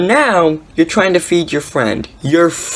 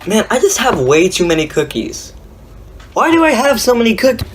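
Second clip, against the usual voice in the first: lightly voiced whiny complaint; a hint of mock whining about cookies; mock complaining; 5 semitones higher than usual. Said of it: "seen someone go".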